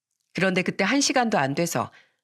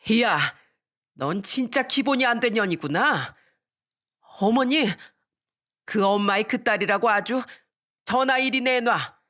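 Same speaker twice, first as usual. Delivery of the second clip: 버럭 소리치며 따지듯; 며느리에게 화가 나 문을 열고 소리치기; 2 semitones higher than usual. Retold or imitated. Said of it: "소리쳤습니다". (시어머니가 며느리에게 분노하며 외침)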